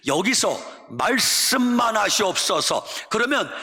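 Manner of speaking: earnest plea building to a shout; pleading centurion. Acted. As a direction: beg the master, rising to a cry. (간절히 외치는 백부장)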